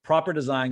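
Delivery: "Proper" said carefully with the R. Shown as a demonstration. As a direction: sound out the R in "Proper". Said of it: "I wanna give an extra shout out".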